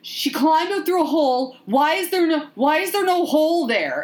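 high-pitched, indignant mock bafflement; angrily confused. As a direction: imitate someone exasperated by a plot hole. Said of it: "you got really angrily confused".

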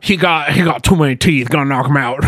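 caricatured Cajun character voice; stylized bayou accent. Acted. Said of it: "doing a very stylized version".

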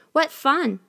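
put-on high, thrilled little-girl cry; cartoon princess. A narrator's reading. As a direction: squeal it with delight. Princess delighted by spinning.

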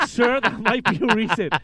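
loud, high, laughing retort; amused rep barely holding it together; imitating a laughing reply. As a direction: retell it through laughter. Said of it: "He laughed, and he's like".

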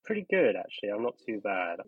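stuffy nose from a cold; nasal voice. Real, not acted. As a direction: speak through a blocked nose. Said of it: "apologies if I sound a bit nasally".

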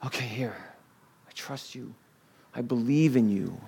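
very soft, humble prayer; hushed surrender. Acted. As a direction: answer God almost under your breath. Models believer's answer to Jesus.

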